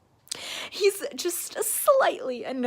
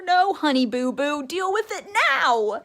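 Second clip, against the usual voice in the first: loud, higher scolding with a laugh; heated; 4 semitones higher, 8 dB louder than usual. Real, not acted. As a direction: scold her like a friend, laughing. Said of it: "Sorry, I'm just heated".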